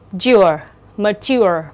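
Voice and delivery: dure alone, then mature with that "ure" ending. Shown as a demonstration. Teacher shows the underlined part, mature with its "ure" sound. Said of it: "phát âm là âm".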